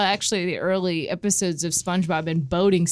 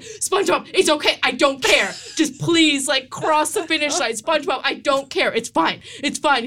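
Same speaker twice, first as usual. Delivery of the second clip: exasperated; 5 semitones higher than usual. Retold or imitated. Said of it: "she's so done with him".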